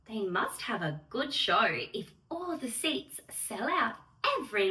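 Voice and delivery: put-on gentle, measured read-aloud for children; storybook rhyme reading. Fairy host reading the Lola story to children, gentle and measured. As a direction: read it like a bedtime picture book.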